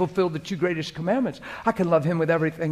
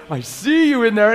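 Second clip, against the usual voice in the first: higher, louder, playful I see you; beaming at God in the truck; a touch of childlike glee; childlike delight; 5 semitones higher, 8 dB louder than usual. Retold or imitated. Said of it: "And I'll be like".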